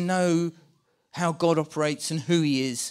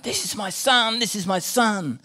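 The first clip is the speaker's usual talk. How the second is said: a touch of a proud father's call; mild delighted shout; 4 semitones higher, 4 dB louder than usual. Acted. Preacher as the Father over his son, mildly delighted shout. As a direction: call it down with delight, only slightly raised. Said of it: "with great delight, shouting down".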